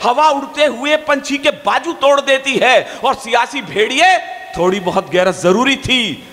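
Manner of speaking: measured, declaiming couplets; poem recital. Acted. Poet recites his couplets to the crowd, declaiming.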